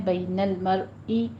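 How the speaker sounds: slow bayn al-mar'i with every letter stilled; Quranic recitation demo. Shown as a demonstration. Teacher models the words for students, slow careful recitation. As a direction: recite بین المرئی slowly, sukoon held on each letter. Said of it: "تینوں جگہوں پہ آپ نے ساکن کرنا ہے".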